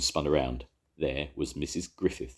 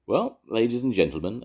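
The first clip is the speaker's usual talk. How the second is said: louder public announcement; announcing; 8 semitones higher, 6 dB louder than usual. A narrator's reading. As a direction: call it out to the whole shop. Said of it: "announced Evans the Song".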